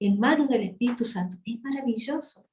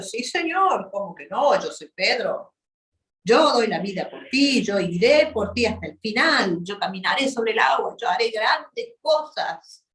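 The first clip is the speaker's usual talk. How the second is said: boastful confidence. Acted. Proud Peter's imagined boast.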